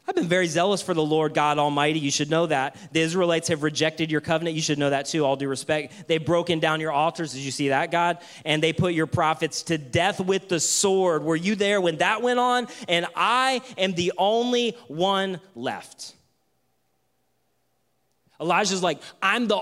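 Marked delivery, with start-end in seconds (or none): 0.1-2.0 loud complaint. Acted. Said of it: "try his speech one more time". 2.0-16.1 loud, indignant complaint to God; Elijah complaining loudly. Acted. Preacher acts out Elijah's complaint.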